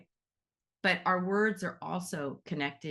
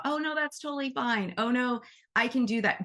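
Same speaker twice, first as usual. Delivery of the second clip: lightly voiced, much higher sing-song mom; a hint of mom; 6 semitones higher than usual. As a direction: imitate mom brushing it off sweetly. Imitating mom's polite fibbing.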